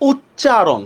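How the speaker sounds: "উচ্চারণ" slowly, leaning on the double চ; doubled consonant shown. Shown as a demonstration. Teacher showing a doubled sound, "উচ্চারণ" slow with a held চ. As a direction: stretch "উচ্চারণ" so the doubled চ stands out. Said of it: "এটাও one kind of দ্বিত্ব".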